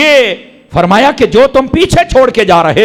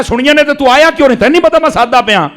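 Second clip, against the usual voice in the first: master questioning; 9 semitones higher, 4 dB louder, faster than usual. Retold or imitated. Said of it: "تے فرمایا".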